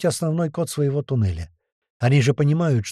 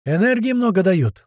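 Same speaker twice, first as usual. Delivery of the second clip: raised, higher alarmed call; yelling down corridor; 7 semitones higher, 4 dB louder than usual. A narrator's reading. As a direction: shout the warning down the corridor. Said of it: "заорал Гера на весь коридор". (тревожный крик на весь коридор)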